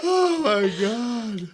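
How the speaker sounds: slow, high laughing Oh my God. Real, not acted. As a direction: laugh it out in disbelief. Laughing reaction.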